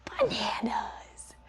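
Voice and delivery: calm the dog down with it; hushed and steady. Shown as a demonstration. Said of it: "Nice and calm".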